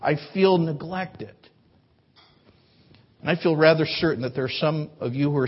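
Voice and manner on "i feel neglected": calm honest feelings. Shown as a demonstration. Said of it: "maturity helps us to express true feelings".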